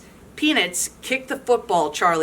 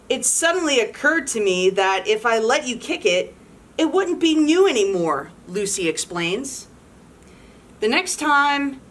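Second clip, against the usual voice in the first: lively storybook read-aloud; animated picture-book narration; reading to children; 2 semitones higher than usual. A narrator's reading. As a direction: read it to a room of kids.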